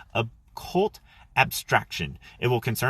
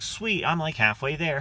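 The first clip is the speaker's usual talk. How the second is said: high, chirpy imitated delight; pitched-up playful cheer; mock-pleased; 6 semitones higher than usual. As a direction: act lightly thrilled to be halfway. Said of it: "you're like".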